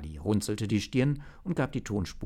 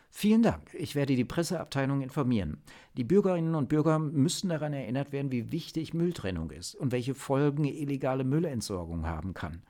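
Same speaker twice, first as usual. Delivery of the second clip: higher-pitched businesslike chief; official chief; 6 semitones higher than usual. Acted. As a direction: speak as the chief issuing a formal statement. (sachliche Chefin, höhere Stimme)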